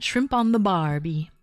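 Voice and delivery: lightly put-on Australian accent. Shown as a demonstration. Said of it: "that's an Australian accent".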